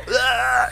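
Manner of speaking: high-pitched fake heave; mock retching. Sick man at the roadside, mock retching. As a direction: imitate someone straining to throw up. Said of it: "trying to throw".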